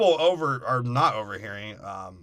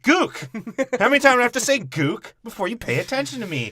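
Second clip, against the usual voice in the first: high, loud shouting at him; mock mom shouting across the table; exasperated yell; 10 semitones higher, 6 dB louder than usual. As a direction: yell it to make him listen. Mom yelling to get attention.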